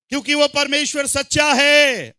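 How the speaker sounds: forceful preaching. Real, not acted. Preacher proclaims God is true.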